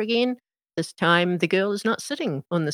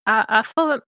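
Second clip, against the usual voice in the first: confused Mater; 4 semitones higher than usual. Acted. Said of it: "he looks a bit confused and says".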